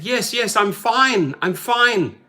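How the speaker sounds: lightly voiced passenger; mild reassurance. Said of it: "And she said".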